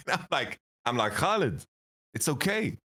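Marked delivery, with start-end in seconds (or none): 1.1-2.8 rising from coaxing to a high exasperated yell; pleading then snapping at a friend; mock exasperated yell. To Khaled, exasperated friend yelling at him to let it go.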